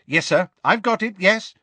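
high, loud, eager confirmation; joyful. A narrator's reading. Assistant scanning notes for the minister, joyfully. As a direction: confirm it keenly, full of joy. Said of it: "scanning his notes joyfully".

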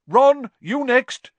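high, loud, drawn-out summons; slow, loud teacher's call. A narrator's reading. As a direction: call the next pupil up. Teacher calling the next pupil forward.

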